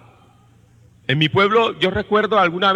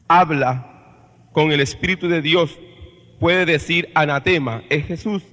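scripture reading. Acted. Reads scripture passage aloud. (lectura solemne y pausada de la epístola)

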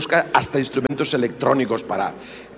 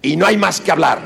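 bossy husband; 5 semitones higher, faster than usual. Retold or imitated. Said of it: "el egoísmo".

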